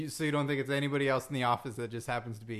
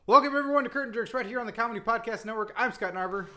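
brisk, higher-pitched host welcome; show intro; 6 semitones higher, 4 dB louder than usual. Pretend. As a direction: rattle off an upbeat podcast opening. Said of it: "let me try it again".

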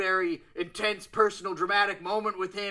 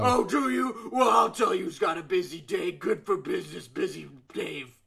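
promo voice. Pretend. Wrestler improvising a character for the host, promo voice.

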